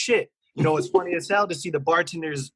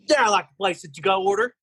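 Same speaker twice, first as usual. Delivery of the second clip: put-on hillbilly accent; 5 semitones higher, faster than usual. Manager places a to-go order in disguise, hillbilly accent. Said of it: "usually in a random hillbilly accent".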